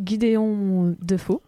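"Gideon Defoe" said slowly in an English way; careful English name. Shown as a demonstration. Host tries English pronunciation of an author's name, slow and careful. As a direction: spell out "Gideon Defoe" with English vowels, unhurried. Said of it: "Il semble que ça se prononce comme ça".

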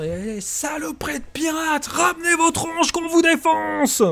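high, slow bellowing captain through a loudhailer; through a megaphone. Acted. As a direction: roar it down a megaphone across the water. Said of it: "une voix au porte-voix qui semble peut-être venir du capitaine".

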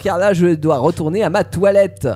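lightly voiced cat, unhurried; purring cat. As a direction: stretch it out like a cat in no hurry. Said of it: "Le chat ronronna".

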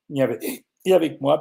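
parle avec le hoquet; coupé par un hoquet. Real, not acted. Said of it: "pardon, j'ai le hoquet". (voix hachée par le hoquet)

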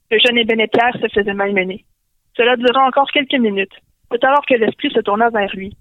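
ordinary delivery

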